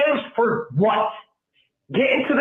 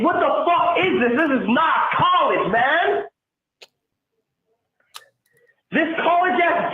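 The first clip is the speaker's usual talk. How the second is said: angry rant; 5 semitones higher than usual. Real, not acted. Caller ranting to hosts about the team, angry shouting. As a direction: let the anger boil over. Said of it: "I'm so fucking angry".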